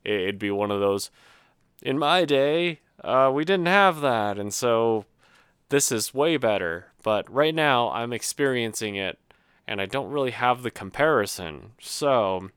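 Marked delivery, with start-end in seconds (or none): 1.8-6.9 mock old-timer. Mimicking an older person's boast.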